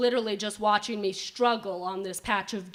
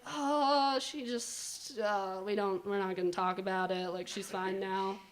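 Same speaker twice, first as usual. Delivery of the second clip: much softer, low hush-up; 3 semitones lower, 7 dB quieter than usual. Retold or imitated. Kristen quietly telling her sister to drop it. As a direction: hush it up so she won't hear.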